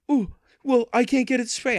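high, whiny mock voice; mocking a complaining buyer. Seller imitating the buyer who can't spray it, high whiny mock. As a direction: play the buyer as helpless and put out. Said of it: "She goes".

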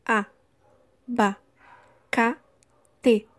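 exaggerated classroom syllables. Shown as a demonstration. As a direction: open the mouth wide on each syllable. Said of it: "Eu abro a boca quatro vezes pra falar".

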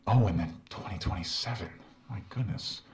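game character. Acted. In-game doctor voice.

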